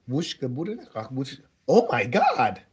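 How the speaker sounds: high mock babble bursting into loud English; imitated foreign woman. Woman suddenly slipping English into foreign chatter, imitated high voice.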